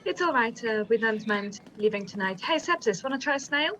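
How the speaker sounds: put-on French accent. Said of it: "sorry for my French accent".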